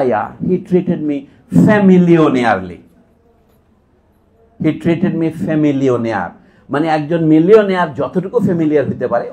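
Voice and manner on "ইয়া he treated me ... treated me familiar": very slow, each word drawn out; condensed joke line. Retold or imitated. Lecturer quoting the poor man's famillionaire joke, very slow. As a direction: spell out the punchline slowly. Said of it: "তখন কথা withdraw করে".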